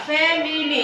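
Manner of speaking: "ফ্যামিলি" divided into three distinct syllables; split into syllables. Shown as a demonstration. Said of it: "এটা তিনটা". ("ফ্যামিলি" তিন ভাগে ভেঙে উচ্চারণ)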